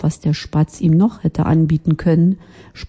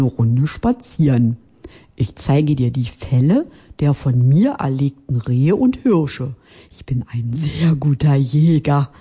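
tiefere, langsame, angeberische Fuchsstimme; stolzer Fuchs; 3 semitones lower than usual. Acted. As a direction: prahl mit deinen Jagdtrophäen. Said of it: "sagte der Fuchs stolz". (Fuchs prahlt mit tieferer Stimme)

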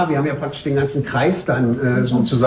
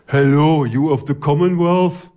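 called out; 3 semitones higher, slower than usual. A narrator's reading. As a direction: hail strangers in foreign English. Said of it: "rief ich". (auf Englisch gerufen)

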